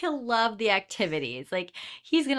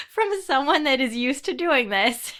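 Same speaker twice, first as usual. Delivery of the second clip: slower, talking through laughter; laughing; 5 semitones higher, slower than usual. Real, not acted. Asking friend for a husband's phone call, laughing. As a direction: say it while laughing, drawn out.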